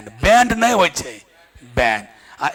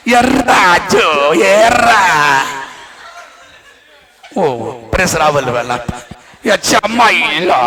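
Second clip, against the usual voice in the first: film scene impression; 5 dB louder, slower than usual. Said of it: "acting जब किसी को होता है".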